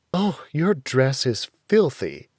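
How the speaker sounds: mild mother's complaint; a light scold about a dirty dress; complaining. Acted. Mother lightly complains about daughter's filthy dress. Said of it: "our mother complained".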